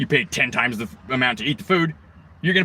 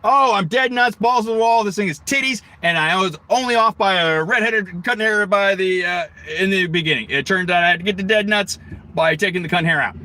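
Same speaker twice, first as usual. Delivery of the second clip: mocking woman machinist; 5 semitones higher than usual. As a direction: ham up a woman boasting about her work. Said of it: "Woman comes in the shop".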